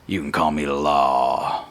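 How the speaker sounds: slow, lightly voiced cowboy; hint of a gruff lawman. Bird lawman names himself to newcomers, slow and cool. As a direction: let the name land slowly. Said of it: "throws it on the ground and says".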